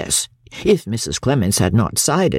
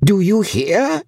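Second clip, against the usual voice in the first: roared; 8 semitones higher than usual. A narrator's reading. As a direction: bellow the order across the room. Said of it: "he roared out".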